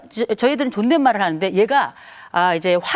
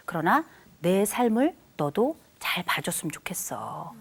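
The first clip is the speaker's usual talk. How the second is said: soft, slow whisper of a parent; whispered plea; 3 semitones lower, 7 dB quieter than usual. Acted. Parent quietly asking the child to see their life, slow whisper. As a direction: breathe the request gently to the child.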